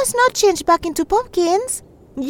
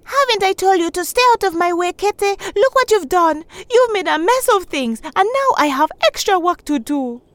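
put-on snapping at the boy who tripped her; yelling; 10 semitones higher than usual. A narrator's reading. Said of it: "Shindo yelled out".

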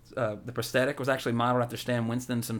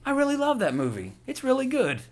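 higher, pleading fan voice; mock panic; 9 semitones higher than usual. Friend scrambling so Kurt Russell likes him, mock pleading. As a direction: plead nervously to win him back. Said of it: "And you're like".

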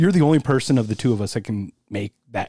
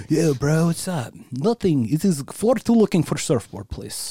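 surfer dude; 3 semitones higher, slower than usual. Retold or imitated. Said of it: "sounds like a surfer".

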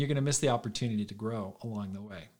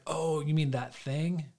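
slow, higher, playing dumb; mock innocent; 4 semitones higher, slower than usual. Retelling his excuse to the minister, in a mock innocent drawl. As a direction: stretch it out like you never heard of it.

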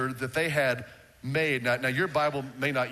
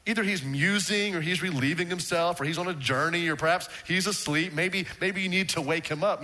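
mocking taunt; 3 semitones higher than usual. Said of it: "Elijah begins to mock them".

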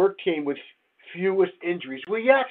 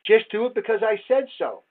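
bossy manager; 4 semitones higher than usual. Retold or imitated. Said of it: "It used to be that way".

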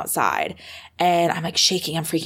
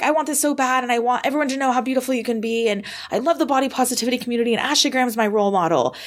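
higher, rushed eager pitch; retold sporadic rambling; 6 semitones higher, faster than usual. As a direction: reenact a hurried, scattered audition plea. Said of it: "It was kind of, like, sporadic".

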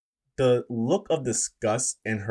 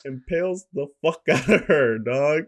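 laughing; 5 semitones higher, 4 dB louder than usual. Real, not acted. Gleeful recap of gory kill.

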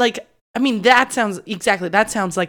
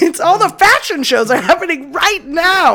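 fashionista voice; 9 semitones higher, 7 dB louder than usual. Pretend. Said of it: "they're like".

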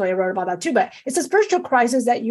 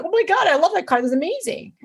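excited; 6 semitones higher than usual. Retold or imitated. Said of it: "I get excited".

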